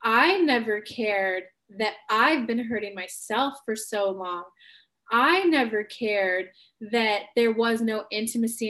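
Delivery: slow, deliberate honest confession; walk her through it slowly; slow, sincere coaching demo; slow reframe. Shown as a demonstration. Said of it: "you flip the script to".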